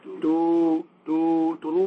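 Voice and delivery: drawn-out "two, two, two" like long shofar notes; long drawn blasts. Shown as a demonstration. Teacher demonstrating longer shofar blasts. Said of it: "A shivarim is more like".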